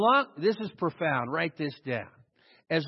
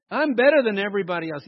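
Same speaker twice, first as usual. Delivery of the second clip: smug boast; 6 dB louder, faster than usual. Retold or imitated. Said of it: "the ones I know talk like that".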